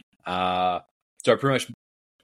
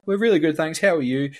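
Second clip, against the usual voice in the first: mock sweet reply; 8 semitones higher, 4 dB louder than usual. Mirroring sugary tone back.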